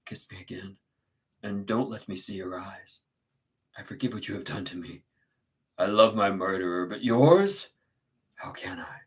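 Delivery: hushed, pained Heathcliff; grieving Heathcliff, tender. Acted. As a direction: murmur forgiveness to a dying lover.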